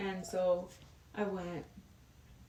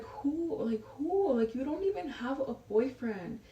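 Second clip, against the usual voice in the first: incredulous; 5 semitones higher than usual. Retold or imitated. Mom's incredulous questioning, retold.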